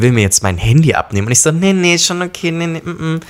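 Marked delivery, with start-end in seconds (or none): 1.5-3.2 high, flustered nee nee; flustered refusal. Retold or imitated. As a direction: back off nervously. Refusing to hand over phone.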